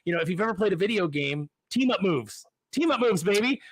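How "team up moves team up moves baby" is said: hyped. Real, not acted. Hyping video game team-ups.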